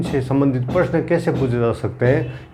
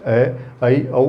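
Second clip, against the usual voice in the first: ए, ऐ, औ drawn out one by one; slow vowel listing; much slower than usual. Shown as a demonstration. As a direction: spell out ए, ऐ, औ slowly for the class. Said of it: "तो ये इसमें आता है". (ए, ऐ, औ को धीरे-धीरे गिनाते हुए)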